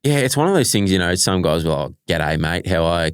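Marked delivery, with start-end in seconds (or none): 2.2-3.1 imitating a bad British accent; lightly mocked attempt at a British accent; terrible British accent. Player imitating teammates greeting him, mock British accent. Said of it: "in their terrible British accent".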